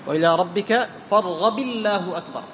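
light l in الله after an i on فارغب; kasra joining. Shown as a demonstration. Teacher showing students the takbir link, kasra joining. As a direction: recite slowly, linking فارغب to الله as "farghabi-llah". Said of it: "فتكسر الباء وتجعل لفظ الجلالة".

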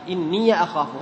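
إني أخاف as "inniya akhafu"; fatha on ya. Shown as a demonstration. Teacher repeats open-ya example, fatha on ya. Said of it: "هذا الفتح".

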